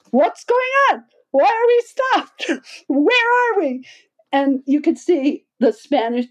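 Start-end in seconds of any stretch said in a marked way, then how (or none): 0.1-3.8 confused alarm. Retold or imitated. Trekkers halted in the rainforest, high baffled alarm. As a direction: play the lost group's rising panic. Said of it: "Everybody goes".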